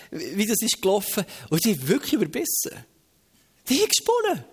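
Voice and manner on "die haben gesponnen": high-pitched exclamation, dropping at the end; incredulous excitement. Real, not acted. Preacher tells how crazy the crowd went, high incredulous exclamation. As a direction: exclaim it, amazed at their madness.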